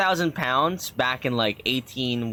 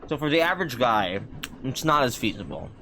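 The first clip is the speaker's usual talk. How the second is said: mouth full. Real, not acted. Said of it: "I'm talking with food in my mouth".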